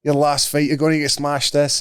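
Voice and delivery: put-on Chechnyan accent for a retold threat; fake Chechnyan accent. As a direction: mimic a prank caller putting on Chechnyan. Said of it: "like, a Chechnyan voice".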